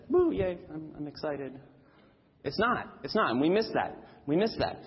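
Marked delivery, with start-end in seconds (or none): 0.1-1.5 mock excitement. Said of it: "It's not just a".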